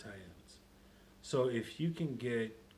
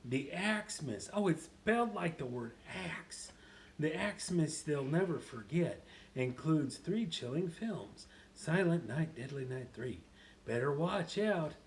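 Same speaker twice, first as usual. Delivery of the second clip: Happy; 3 semitones higher than usual. Acted. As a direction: play it big, stretching the exclamations. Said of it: "just to get you back in character".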